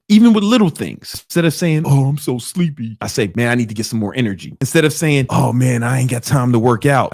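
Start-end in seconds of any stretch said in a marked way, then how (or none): 1.9-3.0 mock whiny. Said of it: "you sound like a hoe". 3.4-4.6 quick, matter-of-fact resolve; determined. Retold or imitated. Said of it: "sound like a G who's ready". 5.3-7.1 mock whiny. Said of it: "like a fucking bitch".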